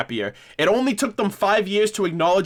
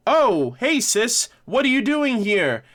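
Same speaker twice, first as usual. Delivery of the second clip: higher-pitched acted-out sisterly hello; mock surprised greeting; 7 semitones higher, slower than usual. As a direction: lightly play a surprised run-in with a sibling.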